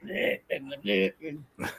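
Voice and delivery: low, soft bleh sounds; mock bleh noises. Wrestler mimics her unladylike self, low mock blehs. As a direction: mimic dull, toneless blehs.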